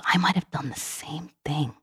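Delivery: put-on slow, hushed whisper of a guilty boy; whispered confession. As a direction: breathe it out almost unvoiced, lip quivering. Tearful boy confesses in dark.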